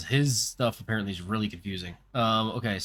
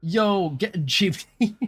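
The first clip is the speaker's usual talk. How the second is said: laughing; 7 semitones higher, 5 dB louder, much slower than usual. Real, not acted. Laughing at chat.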